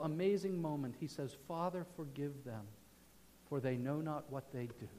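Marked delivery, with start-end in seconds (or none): 1.4-4.9 hushed. Retold or imitated. Dying Christ quoted.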